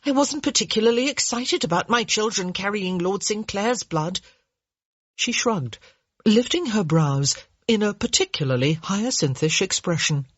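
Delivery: a hint of a breezy, offhand lady; dry young woman. Hyacinth's dry reply.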